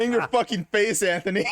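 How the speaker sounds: laughing triumphant taunt; gloating laugh. Real, not acted. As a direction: crow over him while laughing.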